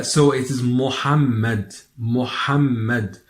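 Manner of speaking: MUHAMMAD with a clear, breathed Arabic ha in the middle. Shown as a demonstration. Teacher models the ha in Muhammad, clear Arabic ha. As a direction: say MUHAMMAD slowly, sounding the Arabic ha. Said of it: "you can hear the pronunciation of the ha".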